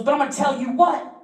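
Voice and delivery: squeaky hyped-up boasting guy; quoting a hyped-up guy in a high squeal; high mock dude voice.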